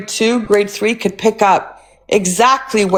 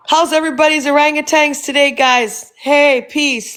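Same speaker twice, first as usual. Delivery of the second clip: mock cheery greeting; 4 semitones higher than usual. Parodying a cheery live greeting.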